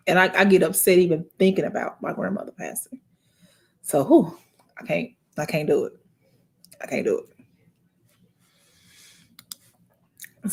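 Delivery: can't get the words out through real tears; crying. Real, not acted. Picturing her grandmother passing, breaking into tears. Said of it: "oh shit, I'm still crying".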